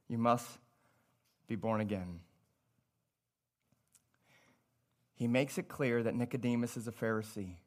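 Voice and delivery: hushed sermon voice. Acted. Preacher to congregation, hushed and intimate. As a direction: drop to a low, soft murmur.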